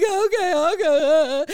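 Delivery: high, loud, sobbing okay. Retold or imitated. Wife sobbing as she agrees to step outside, crying. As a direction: blubber it through tears like a child. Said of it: "sobbing, y'all".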